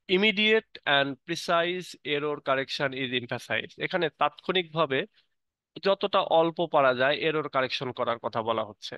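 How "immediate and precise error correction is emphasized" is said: slow, careful reading aloud word by word; teacher reading the English definition aloud slowly; slow textbook reading. Acted. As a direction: read it like dictation for the class. Reads English text slowly.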